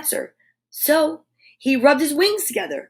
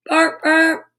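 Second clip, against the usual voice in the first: car horn bark; 4 semitones higher than usual. Acted.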